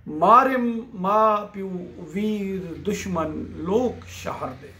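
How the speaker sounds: slow, measured verse with drawn-out words; poetry recitation. Acted. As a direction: recite the poem slowly, stretching the line ends.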